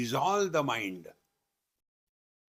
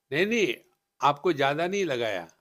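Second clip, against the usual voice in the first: mock shopkeeper protest; 2 semitones higher, 5 dB louder, much faster than usual. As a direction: brush off the customer like a sly shopkeeper. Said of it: "he say".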